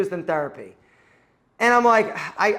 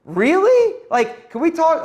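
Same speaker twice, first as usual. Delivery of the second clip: high and loud, fed-up disbelief; incredulous exasperation; 8 semitones higher, 4 dB louder, slower than usual. Retold or imitated. To a pushy interviewer, a high loud incredulous retort. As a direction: throw it back at him like he's crossed a line. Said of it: "I'm like".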